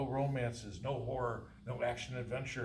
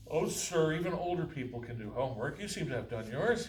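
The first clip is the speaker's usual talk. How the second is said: clumsy eager clerk; 4 semitones higher, 5 dB louder than usual. Acted. Clerk clumsily compliments customer.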